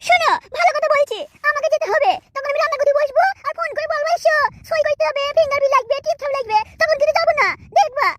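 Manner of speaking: a touch of angry insistence; lightly heated marital protest; mild acted anger. Wife insisting to husband she must go, mildly angry. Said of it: "আর তুমি তো রেগে গেছো".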